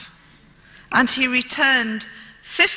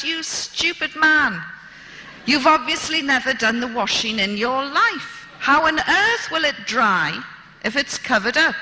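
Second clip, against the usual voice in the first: indignant scolding; 6 semitones higher than usual. Retold or imitated. Scolding the governor over washing.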